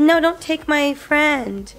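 voicing the dog. Voicing the puppy who doesn't want his friend to leave, slow plea. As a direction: speak for the puppy, begging. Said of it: "He said".

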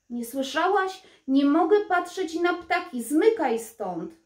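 king chasing the crow from his window; angry king. Acted. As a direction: drive the bird off the sill. King angrily drives bird away.

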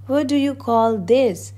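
indignant question, pitched high; storybook outrage; angry roar. A narrator's reading. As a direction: demand an answer as the offended Duke. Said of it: "roared the Duke".

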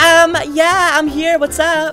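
man doing a woman's voice. Acted. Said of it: "to show him my girl voice".

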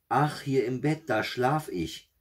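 high-pitched answering call, slowing at the end; calling back. A narrator's reading. Third blood drop answers the witch, calling back high. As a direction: call back high, stretching the last words. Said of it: "rief der dritte Blutstropfen".

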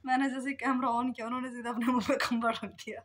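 amused. Real, not acted. Retelling son hiding, laughing.

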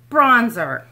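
loud happy call of the word; gleeful loud exclaim; loud repeat. Real, not acted. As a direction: call it out again, thrilled.

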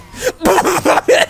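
high laugh. Real, not acted. Spluttering noise while playing.

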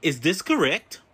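robotic phone menu voice; automated phone system voice. Acted. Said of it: "automated voice messaging system".

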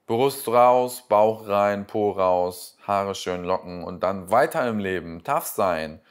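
loud, punchy mock coach commands; mock pep talk. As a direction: bark it out like a cheesy motivational coach.

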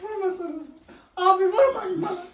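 high pleading cry; pleading in pain. Real, not acted. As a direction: beg them to stop hitting. Being hit with falaka, begging.

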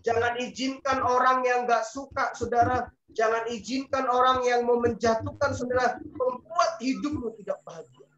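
rally the church at full voice; preaching shout. Real, not acted. Preacher exhorting congregation.

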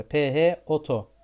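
P H oto, letter by letter, slow; spelled slowly. Shown as a demonstration. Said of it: "foto mesela". (P H oto, harf harf yavaş)

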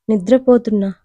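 ordinary delivery, nothing marked

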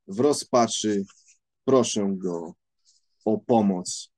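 deliberate reading with pauses between sentences; literary reading aloud. Acted. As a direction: read the opening passage aloud, sentence by sentence. Reads the book's opening aloud.

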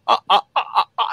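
imitated laugh in separate beats; mock devil laugh. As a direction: fake a devil's laugh, beat by beat. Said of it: "Shaitan laughing".

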